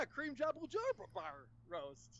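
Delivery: "Kareem Abdul-Jabbar" garbled as "Kreem Jabul-Jobar", drawn out; imitated mispronunciation. Host saying it how he says it, "Kareem Abdul-Jabbar" mangled as "Kreem Jabul-Jobar". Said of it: "That's not how you say it".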